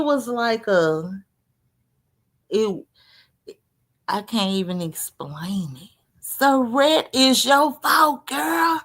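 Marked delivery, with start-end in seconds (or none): 6.2-8.8 louder, slower teasing accusation; playful shout. Real, not acted. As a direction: call her out, half joking. Playfully blaming Saret on stream.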